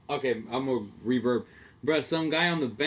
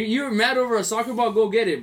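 mock incredulous retort; 9 semitones higher, 6 dB louder than usual. Retold mocking the angry fan.

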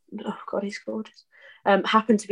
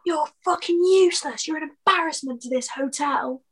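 higher, scornful telling-off; mock furious boss; 8 semitones higher than usual. Manager berating new waitress, higher, scornful and cutting. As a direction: sneer it down at the new girl.

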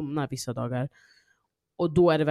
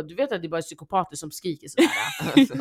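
mildly cross mum, a bit louder; imitated angry mum; 2 semitones higher, 5 dB louder than usual. Mum scolding her screaming kid, mildly angry imitation. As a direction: scold lightly, as a retold mother. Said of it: "Min mamma blir så arg".

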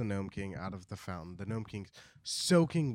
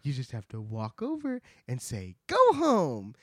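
whispered secret. Acted. Ozma telling the Gnome King the plan, whispered. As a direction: confide it in a hush. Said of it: "she says".

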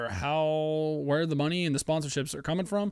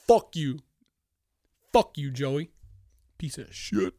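angry outburst; 3 dB louder, slower than usual. Real, not acted. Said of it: "I'm getting too mad".

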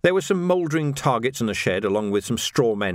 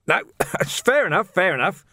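winded, high-pitched, strained speech; acted breathlessness with a puff mid-phrase; panting; 8 semitones higher than usual. A narrator's reading. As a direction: gasp it out after a blow. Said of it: "he panted".

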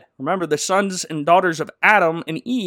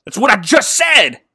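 loud and higher, laughing through it; exasperated Aslan; 7 semitones higher, 8 dB louder than usual. Retold or imitated. Aslan snaps at Caspian, laughing loud exasperation. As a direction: scold him like it's obvious. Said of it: "Aslan backhands him and goes".

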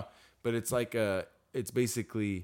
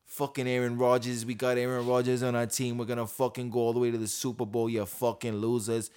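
a hint of a brash New York fan; New York sports fan bragging, lightly done; New York accent; 2 semitones higher than usual. Friend doing a New York fan trash-talking, mild accent. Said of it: "that's my best New York impression".

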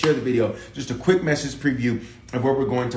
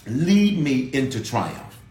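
prayer; slower than usual. Shown as a demonstration. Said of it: "Your prayer has to be that".

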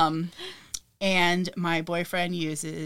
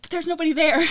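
higher, louder mock-frustrated protest; imitating her own exasperation; retelling her frustrated reply to boyfriend; exasperated; 10 semitones higher, 7 dB louder, faster than usual.

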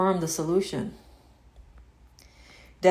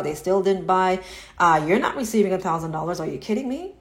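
lightly voiced sneering inner critic; mocking egoic mind. Coach voicing the ego mocking a student's affirmation, sneering. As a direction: scoff like a doubting inner voice. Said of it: "That's what your egoic mind will say".

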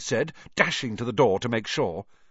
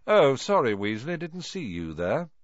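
mock apology; 4 semitones higher than usual. Malfoy fake apology.

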